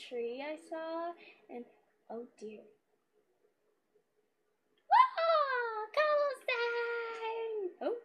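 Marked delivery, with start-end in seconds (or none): 4.9-7.9 surprised whoa. Real, not acted. Spots cobblestone, exclaims.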